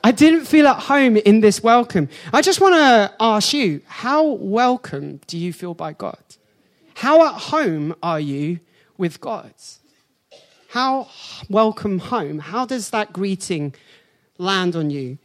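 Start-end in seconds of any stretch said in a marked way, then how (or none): 0.0-2.1 laughing through it. Real, not acted. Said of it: "laughing while preaching". 3.9-15.2 quieter and slow; preacher gently asking the congregation; earnest soft question. Real, not acted.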